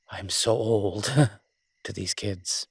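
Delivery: slow, chuckling self-mockery; laughing. Real, not acted. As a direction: laugh through it at your own age. Laughing at himself being old.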